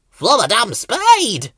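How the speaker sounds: proud little gibberish boast; flowerpot detective gibberish. A narrator's reading. Ben answering Bill as detective, loud slow gibberish.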